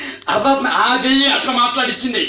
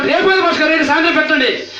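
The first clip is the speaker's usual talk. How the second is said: insistent woman; 5 semitones higher than usual. Retold or imitated.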